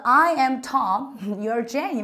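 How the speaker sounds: slow, stretched American Tom with an ah vowel. Shown as a demonstration. Teacher quoting an old textbook dialogue slowly. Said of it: "미국 발음은 이걸 톰이라고".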